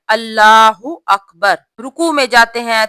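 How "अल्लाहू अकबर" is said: अल्लाहू अकबर chanted slowly, stretched; slow recited takbir. Shown as a demonstration. Teacher recites the takbir for her sisters, slowly. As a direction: draw out अल्लाहू अकबर like in prayer. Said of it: "हम पढ़ते हैं".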